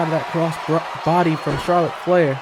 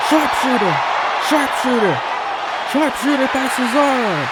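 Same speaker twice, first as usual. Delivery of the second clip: each sharpshooter punched a little higher; excited repeated call; 4 semitones higher than usual. Real, not acted. Commentator calling the finishing hold to viewers, excited repeated call. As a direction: hammer the move name, building hype.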